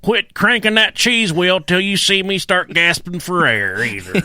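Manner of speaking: mock demanding diner. Demanding diner at Olive Garden.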